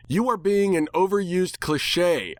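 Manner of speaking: high, sharp retort; snapped back. A narrator's reading. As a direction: throw the insult right back. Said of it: "I snapped back".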